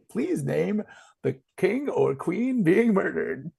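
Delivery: slow, lightly robotic menu voice; automated phone voice. Retold or imitated. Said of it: "you get the automated voice message".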